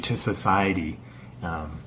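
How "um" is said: halting, stuttering restarts. Real, not acted. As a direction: trip over the words. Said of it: "Now I'm stuttering a lot".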